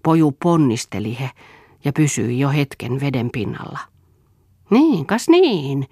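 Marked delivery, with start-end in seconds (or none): 4.7-5.9 high, loud and very slow praise; an encouraging father's slow cheer; praising. A narrator's reading. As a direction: cheer the boy on, drawing it out. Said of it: "kehui Eero".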